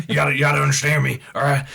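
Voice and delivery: fast, loud ranting conspiracy host; Alex Jones. Retold or imitated. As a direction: rant it fast like a paranoid radio host. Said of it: "That's exactly what he sounds like".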